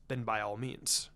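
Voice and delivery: a hint of a grave clan patriarch, measured and formal; lightly voiced Hiashi. Hyuga head confiding in Shikaku, lightly voiced and grave. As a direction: speak as a proud head of clan admitting defeat.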